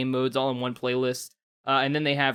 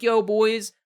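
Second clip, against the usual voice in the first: casual bro voice; 7 semitones higher, 4 dB louder than usual. Retold or imitated. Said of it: "they didn't say it this way".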